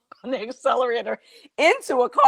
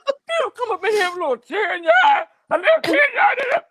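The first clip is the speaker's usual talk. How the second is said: high, loud mock-teasing; hammed-up husband mocking her tears; 4 dB louder than usual. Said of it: "he was like".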